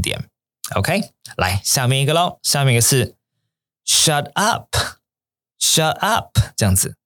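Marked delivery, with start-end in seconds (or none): 3.9-6.4 high, excited disbelief; thrilled, incredulous shut up. Shown as a demonstration. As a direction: say it like you can't believe the news. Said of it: "要是那种比较亢奋的声音哦".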